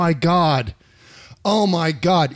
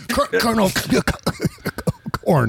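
stammering imitation; 5 semitones higher than usual. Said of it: "He couldn't even say corn".

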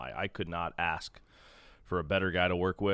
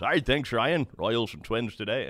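a hint of the announcer's game open; lightly voiced play-by-play intro; Denny Matthews opening; 3 semitones higher than usual. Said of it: "that's how he starts every game".

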